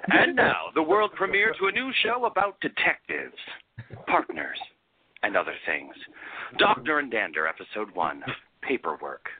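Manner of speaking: big booming voice. Acted. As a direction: boom it out like a show announcer. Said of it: "can I use a big booming voice".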